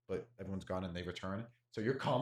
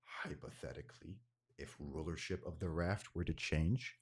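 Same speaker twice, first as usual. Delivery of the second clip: hooded stranger voice; 4 semitones lower than usual. Acted. Voices hooded tabaxi figure.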